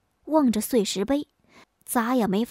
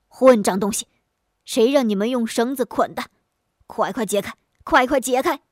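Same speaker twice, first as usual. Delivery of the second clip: angry scolding. Acted. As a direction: snap out the rebuke in a panic. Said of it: "便喝骂差役".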